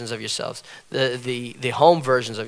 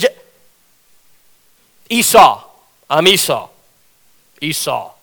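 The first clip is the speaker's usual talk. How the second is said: stuttering hesitation; 3 semitones higher, 8 dB louder than usual. Retold or imitated. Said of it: "he has to stutter and pause".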